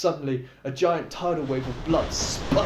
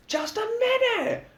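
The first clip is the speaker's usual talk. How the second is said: calling back. A narrator's reading. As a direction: sing it out lazily. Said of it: "Lux calls back".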